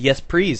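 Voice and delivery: "please" pronounced "prease"; L turned to R. Retold or imitated. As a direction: retell the slip with R replacing L in "please". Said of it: "because this lady said".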